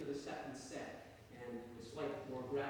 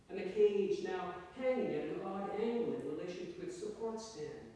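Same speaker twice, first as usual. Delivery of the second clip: measured literary story reading, lilting in pitch; story narration; 4 semitones higher than usual. A narrator's reading. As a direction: read your short story to an audience. Reads own story to audience.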